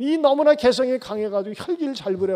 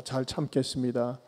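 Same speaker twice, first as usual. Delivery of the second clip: model greeting; 8 semitones lower, 7 dB quieter than usual. Shown as a demonstration. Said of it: "옆에 분들하고 인사합시다".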